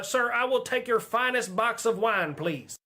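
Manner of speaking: mock fancy waiter, high, loud and slow; imitating fancy waiter. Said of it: "He sounds like a fancy waiter".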